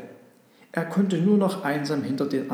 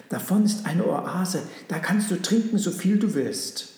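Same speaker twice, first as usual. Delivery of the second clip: encouraging; 5 semitones higher, 4 dB louder than usual. A narrator's reading. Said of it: "tröstete ihn".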